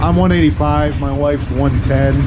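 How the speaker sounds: talking over engine. Real, not acted. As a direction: speak up over a running motor. Engine running, talking over noise.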